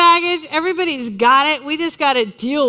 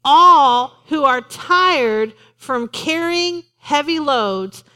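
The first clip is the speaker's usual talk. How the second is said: drawn-out, tender scripture reading; preacher rereading the verse slowly; slow inviting reading; much slower than usual. Retold or imitated. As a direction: stretch each word, inviting. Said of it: "And so he says".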